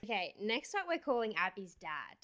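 whispering. Real, not acted. Quietly announcing the next prank call.

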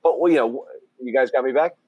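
tinny, thin tin can sound. Real, not acted. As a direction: talk like through a tin can phone. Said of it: "you sound like you're in Tin Can John again".

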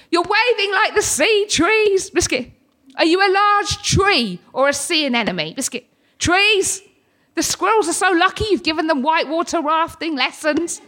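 mock shouts thrown out in sudden bursts; retold shouting. Tics calling out to the trees outside, retold mild shouting. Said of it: "shouting sporadically".

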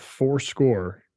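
measured poetic reading; poetic recitation. Shown as a demonstration. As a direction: let the cadence carry it. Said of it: "you hear it in the language itself".

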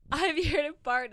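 high, loud mock party cheer; party announcement. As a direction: burst in declaring it's party time. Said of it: "and is like".

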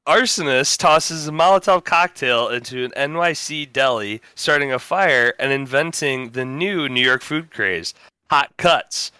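steady newscaster delivery; deadpan news read; news anchor read. Acted. Reads a mock news story.

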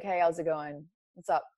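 low-key, casual tough-guy tone; masculine tone. Shown as a demonstration. Showing the interviewer their tough leather-wearing self, masculine tone. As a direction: lightly put on a cool, masculine voice. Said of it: "I would put on this masculine tone".

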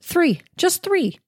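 THREE drawn out high and slow; emphatic three. Real, not acted. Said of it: "three ingredients".

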